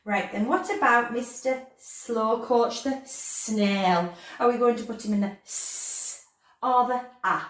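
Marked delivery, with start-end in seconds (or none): none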